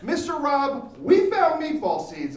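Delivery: put-on high, loud, slow eager kid voice; excited kid. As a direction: drag it out like a breathless kid. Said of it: "Third kid comes up".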